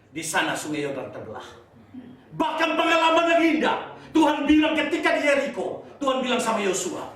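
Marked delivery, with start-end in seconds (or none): 2.3-7.1 high, rousing sermon delivery; forceful preaching. Real, not acted. Preacher introducing the Jericho story to listeners, rousing. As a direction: announce it boldly to the congregation.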